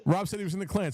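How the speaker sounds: high-pitched pretend exposé; mock accusation. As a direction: play someone pouncing on a confession. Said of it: "Somebody's gonna clip this and be like".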